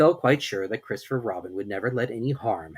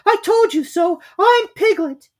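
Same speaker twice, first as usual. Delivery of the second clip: very high, loud vindicated cry; triumphant squeak; 10 dB louder, slower than usual. A narrator's reading. Piglet to Kanga, vindicated. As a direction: crow that you were right.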